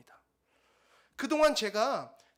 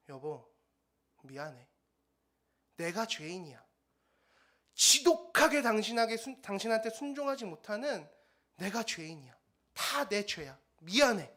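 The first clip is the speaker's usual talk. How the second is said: tearful apology. Retold or imitated. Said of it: "이러면서 아내가 울기 막 시작하는 거예요".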